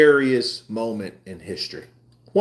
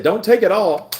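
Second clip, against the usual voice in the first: cousin's warning; 11 semitones higher, 5 dB louder than usual. Retold or imitated. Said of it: "and he said".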